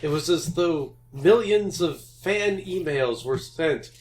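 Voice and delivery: a hint of a solemn old Jedi; Obi-Wan. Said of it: "basically had Obi-Wan saying".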